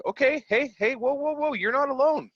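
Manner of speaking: high, loud urgent whoa to calm him. Retold or imitated. Calming a panicking fellow shop owner on the phone, urgent high whoa.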